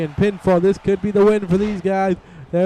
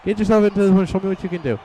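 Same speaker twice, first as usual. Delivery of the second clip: higher, quick dare; daring challenge; 4 semitones higher, faster than usual. Retold or imitated. MVP taunting his eager partner, high quick dare. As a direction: goad him into proving it. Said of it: "M V P telling him".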